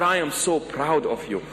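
gently earnest; heartfelt. Shown as a demonstration. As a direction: tell them from the bottom of your heart. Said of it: "mean it from the very bottom of your heart".

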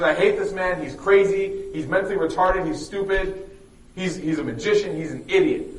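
acted-out indignant complaint; retold angry rant. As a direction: rattle off insults in a mock tirade. Old woman ranting about the man.

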